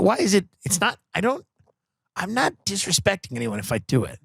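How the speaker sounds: ordinary talk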